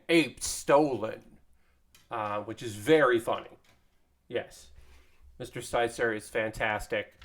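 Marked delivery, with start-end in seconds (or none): 0.1-1.2 slow, lightly imitated multiplayer announcer; Halo announcer. Streamer quotes the tweeted cameo for viewers, slow mock announcer. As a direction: draw it out like a game announcer's callout. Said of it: "in the Halo voice that you would imagine".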